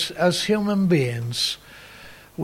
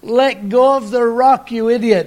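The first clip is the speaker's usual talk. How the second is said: monkey language; 6 semitones higher, 6 dB louder than usual. Retold or imitated. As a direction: shout it like a frantic monkey. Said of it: "in monkey language".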